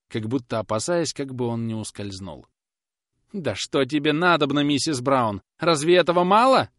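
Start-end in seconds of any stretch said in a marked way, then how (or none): 3.3-6.7 high, loud exasperated objection; desperate protest. A narrator's reading. Tormented grinder protesting to the old woman. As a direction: push back in despair. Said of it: "возразил отчаянный точильщик".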